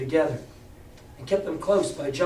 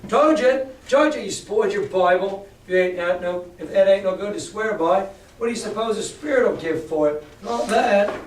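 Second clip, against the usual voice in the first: louder, jeering pirate; mocking Silver; 3 semitones higher, 4 dB louder than usual. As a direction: taunt the frightened lad. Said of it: "he snapped his fingers".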